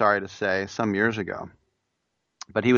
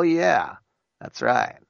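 ordinary talk, nothing marked

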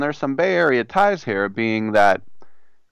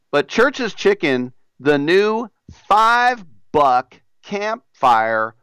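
put-on Southern accent; 2 semitones higher than usual. Radio host reading a chicken ad in a put-on Southern accent. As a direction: sell the chicken like a down-home Southern pitchman. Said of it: "Why do I do a Southern accent?".

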